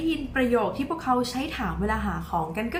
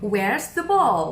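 "Where's the ball?" called out loud to the class; louder quiz question; 5 dB louder, much slower than usual. Shown as a demonstration. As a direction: call it out to the children. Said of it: "คุณครูถามเด็กๆว่า".

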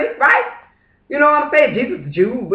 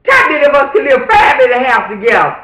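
loud challenge thrown at the listeners; shouting; 3 semitones higher, 3 dB louder than usual. Real, not acted. Asking viewers who could live five to a house, shouting. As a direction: yell the question like a dare. Ranting about family living.

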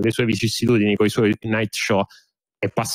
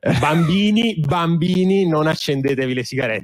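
public service warning; 3 semitones higher than usual. Acted. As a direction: lecture the kids like a safety ad. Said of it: "Don't try this at home".

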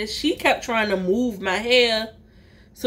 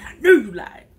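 louder repeat; 6 dB louder than usual. Retold or imitated. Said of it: "up in my head".

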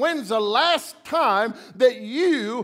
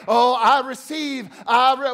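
mock smug receiver; 5 dB louder than usual. Preacher mocking prosperity believers, smug receiving voice. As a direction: savour receiving like a spoiled believer. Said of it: "everybody wants to be the receiver".

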